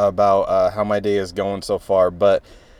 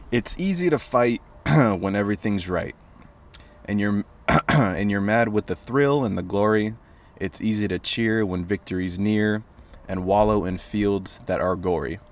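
steady, softer poem recital; poem reading; 4 dB quieter than usual. Acted. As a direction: read the verse plainly and calmly. Reads poem aloud.

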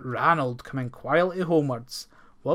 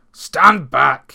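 loud, sharp command to the beast; shouted warning; 13 dB louder than usual. A narrator's reading. Ploughman to monster, a loud shouted warning. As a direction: shout him back like a warning. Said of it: "he shouted".

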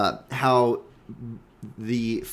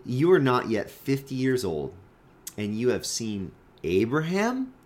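sarcastic. Acted. Preacher voicing the Jews doubting Jesus, sarcastic. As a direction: quote the scoffers with mild sarcasm. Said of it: "you can hear the sarcasm in their voice".

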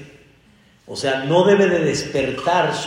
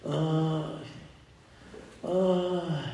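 sick person's moan; 9 dB quieter than usual. Retold or imitated. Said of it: "un sonido cuando tú escuchas de repente a tu marido".

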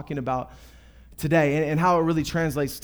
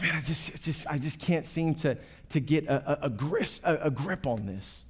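softer, halting mock struggle; mild discouragement; 4 semitones lower, 8 dB quieter than usual. Believer grasping at happiness like water, mildly discouraged. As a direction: stumble quietly through understated defeat.

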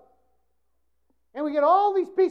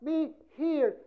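mock pleading prayer; 6 dB louder, much slower than usual. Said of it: "your prayers are informing God".

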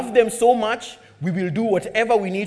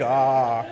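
limp shout; 6 semitones lower than usual. Retold or imitated. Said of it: "Everyone was shouting like".

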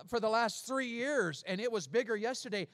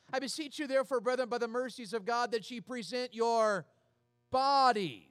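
scripture recitation; 2 semitones higher than usual. Shown as a demonstration. Preacher rereading Romans to the church, stressed ending. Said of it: "I read that one day".

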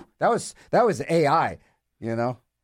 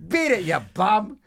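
1930s beat cop; 5 semitones higher than usual. Retold or imitated. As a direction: bark it like an old-time street cop. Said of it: "With names like".

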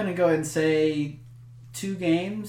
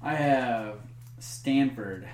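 top ten countdown; slower than usual. Acted. Countdown reveal of playoff picks.

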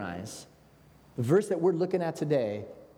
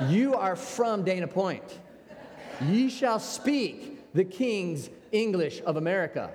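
mock scolding; 3 semitones higher, slower than usual. Mock scolding of friend's put-on accent.

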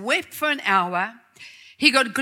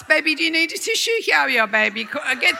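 mock fussing over husband; 2 semitones higher, faster than usual. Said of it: "it should be the other way around".

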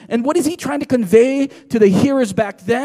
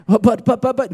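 repeated, cut-in mock objection; mock sputtering objection; sputtered protest. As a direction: stammer out an excuse. Acts out someone protesting with excuses.

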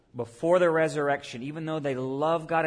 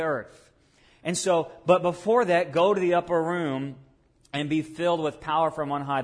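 louder preached command; commanding charge; 4 dB louder than usual. Acted. Jesus commissioning the disciples, loud and rousing. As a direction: send them out with force. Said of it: "he says".

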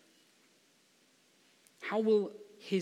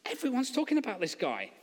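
nervous backtracking; 4 semitones higher than usual. Acted. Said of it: "tries to get out of it and backtrack".

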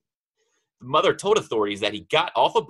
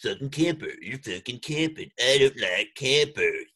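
imitating raging gamer. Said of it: "He gets kinda ragey".

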